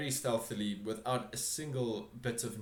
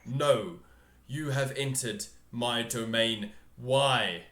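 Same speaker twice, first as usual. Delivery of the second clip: slow, louder, demanding ruler; stern ruler; 5 dB louder, slower than usual. Acted. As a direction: press them with cold authority. GM voices the throne figure.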